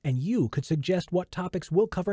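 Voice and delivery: talking while chewing gum. Real, not acted. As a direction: gum in the mouth. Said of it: "gum in my mouth".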